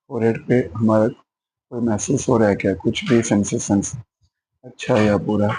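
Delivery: unhurried body-scan guidance with pauses; measured meditation instructor, phrase by phrase; guided meditation. Acted. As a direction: lead listeners step by step through a body scan. Leads body-scan meditation practice.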